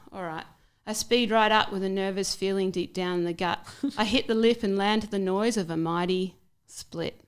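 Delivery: rhythmic rhyming poem reading; poem recital. Acted. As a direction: recite it like performance poetry.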